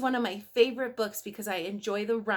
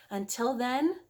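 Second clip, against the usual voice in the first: whispered goodbye. Real, not acted. Sign-off whisper.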